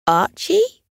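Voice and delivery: put-on high, hopeful boy; trying a name. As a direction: test the name out loud. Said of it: "he tried".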